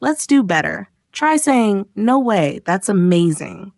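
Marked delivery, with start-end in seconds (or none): 2.0-3.7 bright, lively reaction; excited. Shown as a demonstration. Teacher demoing a lively reaction to a friend's news, excited. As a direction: say it like you mean it. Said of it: "Feel the energy in that".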